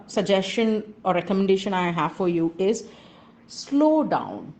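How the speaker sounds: ordinary talk, nothing marked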